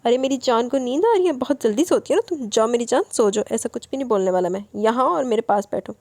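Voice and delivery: lightly voiced tender cooing; loving coax. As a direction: coax her gently to sit close. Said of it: "وہ اتنے پیار سے بولا".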